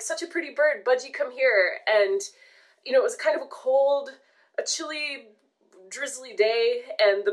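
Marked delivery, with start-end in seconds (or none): 0.0-1.8 coaxing. Retold or imitated. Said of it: "we were like".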